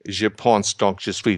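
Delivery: French words in an American's rough French accent; self-mocking French accent. Shown as a demonstration. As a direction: quote Descartes in French in his own self-styled horrible French accent. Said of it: "you're gonna hear my horrible French accent".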